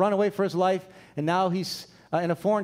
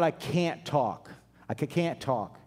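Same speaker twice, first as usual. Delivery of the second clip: low, lightly stammered protest; halting excuse; 4 semitones lower, 3 dB quieter, slower than usual. Acted. Moses tells the Lord he can't speak, mock halting excuse. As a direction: stumble softly over the words.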